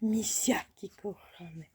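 soft slow whisper to sleeping puppies. Real, not acted. Whispering to the puppies so they stay asleep. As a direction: hush it to the pups.

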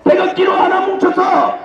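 shouted call to struggle; rally the crowd to fight; roaring rallying speech. Real, not acted.

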